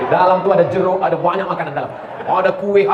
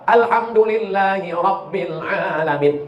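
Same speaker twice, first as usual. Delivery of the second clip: Alhamdulillahi Rabbil Alamin chanted slowly, Ra thick; slow recitation demo; much slower than usual. Shown as a demonstration. Preacher showing correct recitation, slow and chanted. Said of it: "Selalu orang salah tiga".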